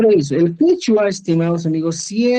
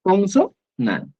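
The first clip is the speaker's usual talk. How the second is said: consonante, slowly stretched; teacher stretching consonante for emphasis; drawn out; much slower than usual. Shown as a demonstration. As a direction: lean on consonante. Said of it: "que terminan en".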